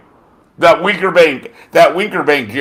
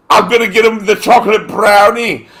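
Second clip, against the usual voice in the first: Sheffield lisp; 5 semitones higher than usual. Retold or imitated. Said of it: "remember fucking Kell Brook?".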